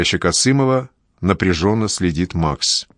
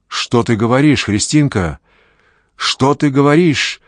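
ringing; 6 semitones higher than usual. A narrator's reading. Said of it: "звонко вопрошает Павел Корчагин".

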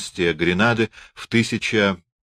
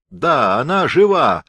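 higher-pitched, mocking confirmation; a touch of scornful triumph, no laughter; terrible mockery; 6 semitones higher, 4 dB louder than usual. A narrator's reading. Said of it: "захохотал со страшной насмешкой". (со страшной насмешкой)

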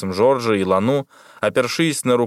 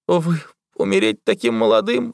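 high, strained cry of a doomed man; lightly voiced wretched exclamation; 8 semitones higher than usual. A narrator's reading. Bivil laments the young captain, high and pained. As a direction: cry out in despair. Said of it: "воскликнул несчастный Бивиль".

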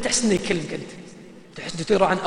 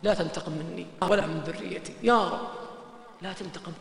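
hushed pleading prayer; 4 semitones lower, 9 dB quieter than usual. Retold or imitated. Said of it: "قاعد يقسم بالله".

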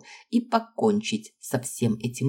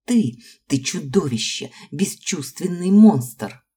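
louder, slow, hateful outburst; a furious girl cursing her rival; furious accusation; 4 semitones higher, 6 dB louder than usual. A narrator's reading. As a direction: hurl the insult slowly and loud. Аманда accuses in rage.

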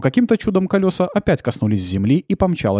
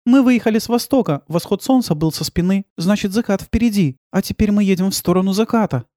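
put-on higher, lighter girl's voice; narrator's higher voice for the young heroine; young woman voice; 8 semitones higher than usual. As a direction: voice the girl thinking aloud.

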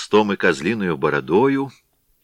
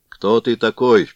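stern; 4 semitones higher, 5 dB louder than usual. Acted. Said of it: "произнёс кузнец суровее прежнего".

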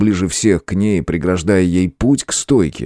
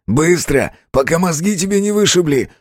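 thug voice; 8 semitones higher than usual. A narrator's reading. Robber threatening the clerk.

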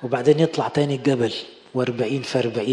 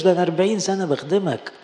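higher-pitched mock protest; imitated whining complaint; 4 semitones higher than usual. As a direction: act out an aggrieved servant's complaint. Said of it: "ما قعدش يعيط، ما قالوش". (تقليد شكوى واحتجاج)

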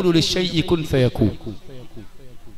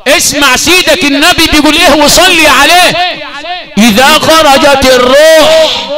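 louder, stretched preacher's call; fervent preaching; 5 semitones higher, 13 dB louder than usual. Acted. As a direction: declaim it to the congregation. Preaching at full force. (خطابة حماسية بصوت عالٍ)

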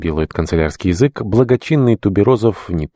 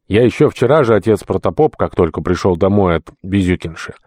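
lightly voiced deacon, insistent and a touch raised; earnest deacon; 2 semitones higher than usual. Deacon explains himself to the archpriest, lightly voiced earnest plea. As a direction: lightly act a deacon justifying himself, stressing the quoted words.

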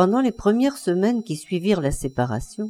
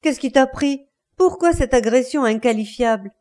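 raised, affronted questioning; indignant protest; 4 semitones higher than usual. Acted. Wife to her attacking husband, indignant. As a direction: demand to know why, outraged.

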